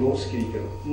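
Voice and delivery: mock irritated adult muttering; muttered complaint. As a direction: grumble it under your breath. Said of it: "Så sier vi".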